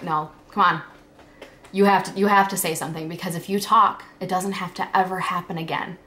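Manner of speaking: insistent self pep talk, pushed and quick; urging herself. Retold or imitated. Girl nudging herself to tell her mom, urgently. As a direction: push yourself firmly to speak up.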